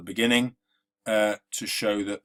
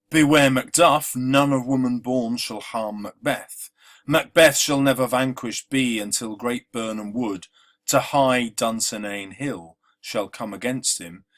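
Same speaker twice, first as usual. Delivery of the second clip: a quotation read out with weight, louder at the start; dramatic reading; 4 dB louder than usual. Shown as a demonstration. Teacher reading the witches' lines to the class.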